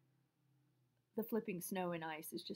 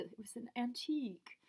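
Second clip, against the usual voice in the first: whispering; 3 semitones higher than usual. Real, not acted. Whispered aside.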